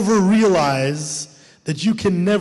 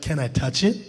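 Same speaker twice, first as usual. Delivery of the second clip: timid ask; 6 semitones lower, 6 dB quieter than usual. Retold or imitated.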